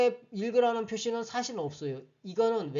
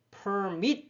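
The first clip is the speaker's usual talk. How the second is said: permit stressed on MIT, drawn out slowly; stress on last syllable; 2 semitones higher than usual. Shown as a demonstration. Teacher reading the dictionary entry, per-MIT. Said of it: "여기 강세가 요 뒤쪽에 있죠".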